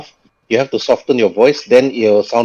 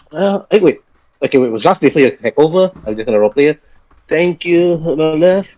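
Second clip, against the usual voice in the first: put-on old lady voice; 5 semitones higher, faster than usual.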